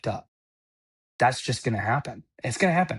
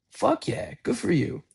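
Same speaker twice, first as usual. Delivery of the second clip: excited cheer; 8 semitones higher than usual. Real, not acted. Cheering on someone staying sober.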